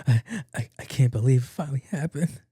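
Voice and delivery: mock sobbing, with gasps; imitated crying. Friend phones in about the news, mock crying. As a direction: put on a tearful caller, lightly done. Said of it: "Called me crying".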